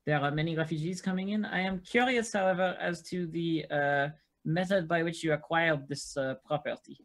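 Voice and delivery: measured, polite official questioning; formal questioner. Acted. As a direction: put a careful formal question to her.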